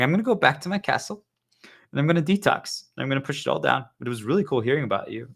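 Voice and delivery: light singsong politeness; mock chirpy chat. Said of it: "we even talk like that".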